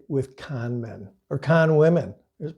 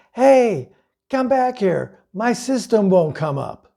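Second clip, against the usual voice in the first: retold scream; 6 semitones higher, slower than usual. Prospect yelling from the fire escape at salesmen driving off, mock yell. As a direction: call after the car in a half-acted yell. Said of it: "on the fire escape and screaming".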